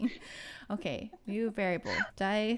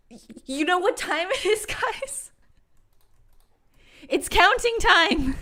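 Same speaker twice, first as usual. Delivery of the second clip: hammed-up announcer voice; 10 semitones higher, 8 dB louder than usual. Hyping up the counting bit.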